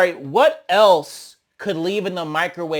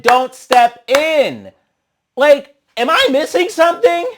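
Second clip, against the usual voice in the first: incredulous; 9 semitones higher, 7 dB louder than usual. Real, not acted. Incredulous at contradiction.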